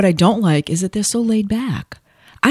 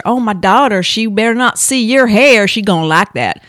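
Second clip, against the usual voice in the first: put-on Southern accent; 3 semitones higher, 4 dB louder than usual. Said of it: "he had that accent like this".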